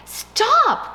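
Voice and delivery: high, loud cry of stop; cried out. Acted. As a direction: shout it to be heard over the noise. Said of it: "cried the mouse".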